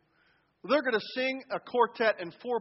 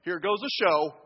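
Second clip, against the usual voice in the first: slow, dismissive mock sneer with a scoff; hammed-up eye-roll at a showoff. Sneering at the worship leader in a bad attitude, slow and scornful. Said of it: "Or in a bad attitude".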